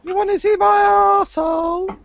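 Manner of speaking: high Geordie accent, hammed up; fast, high Geordie voice. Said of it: "that was Geordie".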